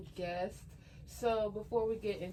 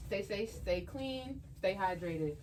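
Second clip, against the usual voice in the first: wearing a retainer. Real, not acted. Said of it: "I got my retainers in, so if I mess up on a word".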